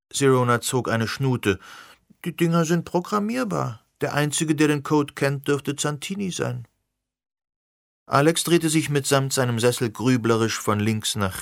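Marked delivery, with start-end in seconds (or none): 2.2-6.7 put-on young woman voice. Sirona explaining.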